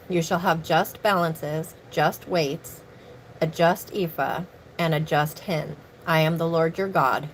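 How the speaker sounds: steady solemn reading of Leviticus chapter nineteen; scripture reading. Acted. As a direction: read scripture aloud like a formal lesson. Reads Leviticus aloud to viewers.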